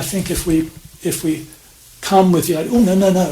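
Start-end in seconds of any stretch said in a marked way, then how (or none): 2.7-3.3 louder, flustered string of no's; a quick, raised protest to yourself; mock self-reproach. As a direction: act out catching yourself and objecting. Acting out self-judgment in meditation.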